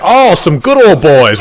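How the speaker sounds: loud, slow imitated Southern drawl; Southern accent. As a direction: mimic a Southern good old boy. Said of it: "who actually had that accent".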